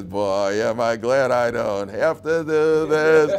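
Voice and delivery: wry inner thought. Retold or imitated.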